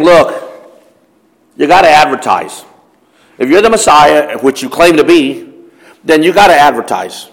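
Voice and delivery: mildly mocking brothers, taunting Jesus; a light sneer, egging him on to show himself; sarcastic. Brothers taunting Jesus to go to the feast, lightly sarcastic. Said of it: "you can see the sarcasm in their voice".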